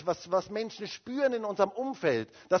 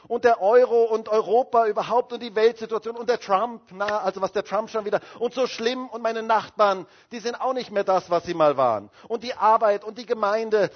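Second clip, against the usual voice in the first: mock complaining in a high, raised voice; imitated moaning; 4 semitones higher, 6 dB louder than usual. Preacher mimicking negative Christians who forget God, moaning. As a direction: reel off grievances in an agitated run-on. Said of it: "sie jammern und jammern und jammern".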